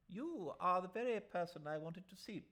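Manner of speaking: put-on old gentleman. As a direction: play a fussy old gentleman. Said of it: "said the old gentleman".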